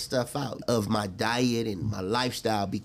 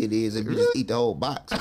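laughing; 3 dB louder than usual. Real, not acted. Defending graham crackers as sweet.

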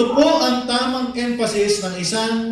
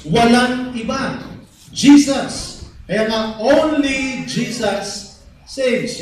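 fervent preaching. Acted. Pastor to the congregation, building to a fervent proclamation. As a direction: proclaim the one name, building to a peak.

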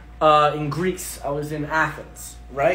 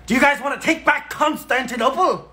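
high, louder eccentric stranger; lanky dude; 8 semitones higher, 3 dB louder than usual. Acted. Lanky stranger recruiting two tourists, high put-on voice. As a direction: pitch it up as a zealous stranger. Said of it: "lanky dude, and goes".

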